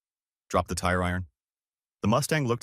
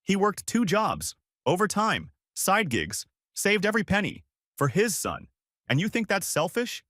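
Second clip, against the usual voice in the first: thundering rage; 11 semitones higher than usual. Acted. Mother tearing into her husband for wrecking the car, furious. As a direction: let it crack like thunder. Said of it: "Her voice cracked like thunder".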